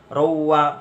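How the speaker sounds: "Ruwa" merged into a held, humming w; idgham bi ghunnah. Shown as a demonstration. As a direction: hold the nasal glide in "Ruwa". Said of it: "bacaan idgham". (baca "Ruwa" dengan dengung yang ditahan)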